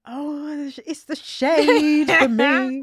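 drawn-out laughing line; cracking up at the shade. Real, not acted. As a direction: laugh through it, slowly. Laughing at friend's jab.

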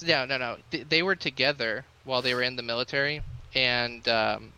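nervous, jittery voice; shaky with nerves, too much caffeine. Real, not acted. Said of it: "I'm really, like, jittery right now".

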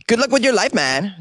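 high, sing-song brush-off; mock sign-off. Host teasing a listener, high mock farewell. Host's mocking sign-off catchphrase.

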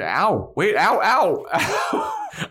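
loud, high comic yelps; hammed-up cries of pain breaking into laughter; mock pained screaming. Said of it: "I've never seen someone scream as much".

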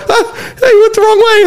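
high-pitched excited outburst, acted; eager anticipation. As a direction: imitate teammates bursting with glee. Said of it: "on pins and needles".

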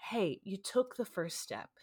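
gentle, kind reassurance; sweet encouragement. Retold or imitated. Receptionist comforting crying patient, gently. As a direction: encourage her kindly. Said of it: "couldn't have been sweeter with me".

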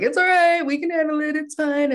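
overconfident. Retold or imitated. Ghostbusters brushing off danger.

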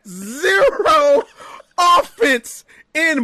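zero stretched high and slow; stressed zero. Acted. Mocking a wrestler who got zero offense, stretching zero slowly. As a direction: lean hard on Zero and drag it out.

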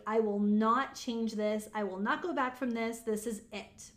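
deliberate, emphatic vow; firm resolve. Acted. Coach models refusing to change a goal, resolute. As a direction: draw a line and close the matter. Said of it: "You need the energy of".

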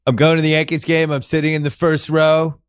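lightly voiced boastful Trump; a hint of Trump bragging; Trump impression. Host pretending to be Trump at the game, light boastful impression.

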